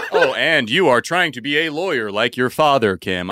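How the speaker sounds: a hint of a stiff video game NPC; mock cutscene dialogue, laughing; lightly voiced game character. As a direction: read it like a game character's canned line. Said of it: "non-playing characters".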